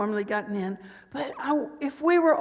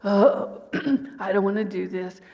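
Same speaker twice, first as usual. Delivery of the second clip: a light, glum Eeyore mope with a throat clear; 3 semitones lower, 3 dB louder than usual. Retold or imitated. Preacher imitating a moping complainer, lightly glum. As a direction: sigh it out like a gloomy donkey, only half-played. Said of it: "It's gonna be more like Eeyore".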